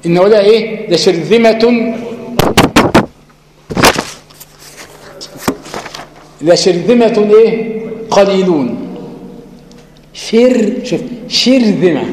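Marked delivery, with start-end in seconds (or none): 0.9-7.3 لشرذمة said slowly, ر light; slow demo. Shown as a demonstration. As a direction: stretch لشرذمة carefully. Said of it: "مرققة برضو".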